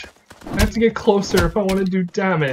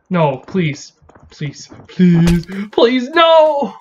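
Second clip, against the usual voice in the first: desperate pleading; 7 dB louder, much slower than usual. Real, not acted. Begging while dying in game.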